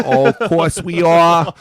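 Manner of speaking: high, slow, smug fan voice; smug Boston fan. Retold or imitated. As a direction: drawl it like a proud Patriots fan. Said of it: "and they're like".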